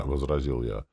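ordinary delivery

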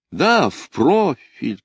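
a high, drawn-out call, slow. A narrator's reading. Lida joins in from the ground, calling out. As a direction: call out eagerly and slowly. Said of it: "крикнула Лида".

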